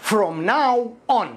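"From now on" stretched very slowly, stress on "now"; slow demo. Shown as a demonstration. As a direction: draw out "From now on" for learners to copy. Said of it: "كما يقولون باللغة الإنجليزية".

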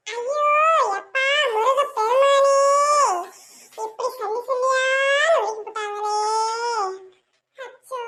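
sobbing wail that fades to a whimper; mock wailing. Daughter wails to her mother after falling, hammed-up sobbing.

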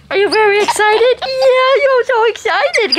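high gushing coo, drawn out; excited pet talk. Real, not acted. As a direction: hype up the monkey over a treat. Talking to monkey about fish.

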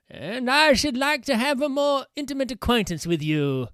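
put-on a puzzled old priest, weighing each word; priest's voice. Priest continues.

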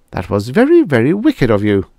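mild severity. Acted. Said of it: "Dora said severely".

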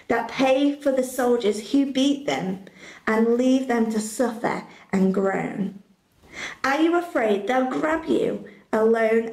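sing-song rhyming read-aloud, gentle and rhythmic; story narration. A narrator's reading. Presenter reading a rhyming Bible story to the youth group, lilting storybook voice. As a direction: read the rhyme to children like a bedtime story.

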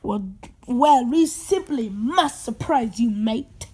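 put-on chummy British-accented delivery. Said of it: "a British accent in your voice".

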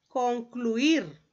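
"concluir" drawn out, con-clu-ir; syllable split. Shown as a demonstration. Teacher showing a hiatus to the class, "concluir" in stretched syllables. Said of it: "en dos sílabas diferentes".

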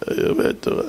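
whispered repeat of אני לומד תורה; scared whisper. Retold or imitated. The crying driver repeats to the rabbi, whispering. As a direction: breathe the words out, barely voiced.

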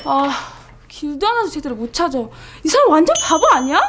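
exasperated. Acted. Exasperated at lost caller.

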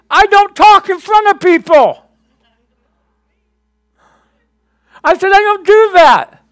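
high, muffled, as if talking through a covered mouth; the shy old voice of someone who never spoke in public. Retold or imitated. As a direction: hide the words behind your hand. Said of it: "I would talk like this all the time, covering my mouth".

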